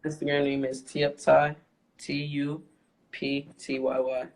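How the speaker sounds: slow, measured repeat of a username. Real, not acted. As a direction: spell it out slowly, with pauses between letter groups. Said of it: "one more time slower".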